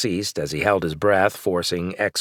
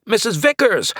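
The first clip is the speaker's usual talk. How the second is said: high, loud call across the roof; yelling; 13 semitones higher, 4 dB louder than usual. A narrator's reading. Flint calling to his neighbor, high and loud yell. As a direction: call out her name loudly. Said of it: "I yelled".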